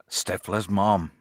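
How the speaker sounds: slow attempt at "mom" with an American vowel; "mom" drawn out in borrowed American. Shown as a demonstration. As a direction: say "mom" carefully, as an English speaker trying American. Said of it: "hundred percent English accent to say mom".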